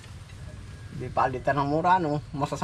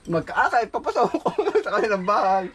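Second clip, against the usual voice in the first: laughing quote; 3 semitones higher than usual. Retold or imitated. Quoting with laughter.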